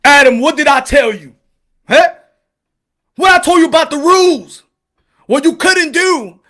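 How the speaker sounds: scolding God. Acted. God scolding Adam, acted.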